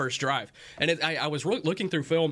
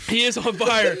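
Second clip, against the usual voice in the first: higher, louder hyped arcade announcer call; NBA Jam announcer; 5 semitones higher, 6 dB louder than usual. Retold or imitated. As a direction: shout it like the video game announcer. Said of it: "Not N B A jams either".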